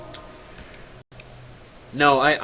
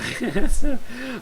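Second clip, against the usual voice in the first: high, bright laugh at his own joke; burst of laughter; 11 semitones higher, 4 dB louder than usual. Real, not acted. Streamer laughing at his own word "anti-mather". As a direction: crack up at the made-up word.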